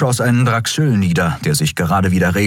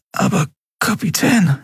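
brüchig, hoch und schwach; brüchige Stimme; 12 semitones higher than usual. Acted. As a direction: lass die Stimme brechen. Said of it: "begann Miko mit brüchiger Stimme". (brüchige Jungenstimme)

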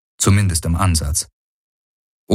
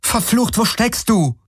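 calling out; 14 semitones higher than usual. A narrator's reading. Searching, calling for Hawks.

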